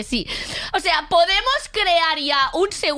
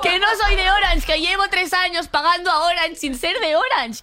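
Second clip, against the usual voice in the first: higher-pitched, half-laughing protest; exasperated disbelief; 4 semitones higher than usual. Real, not acted. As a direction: insist on how absurd it is. Exasperated repeat of absurd billing. (indignada y medio riéndose, más aguda)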